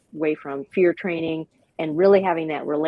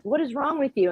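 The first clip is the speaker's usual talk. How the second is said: high, exasperated owner scolding; 9 semitones higher than usual. Retold or imitated. Owner jerking the leash at her wild dog, high mock scolding. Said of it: "And you're like".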